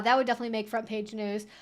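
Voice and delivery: ordinary delivery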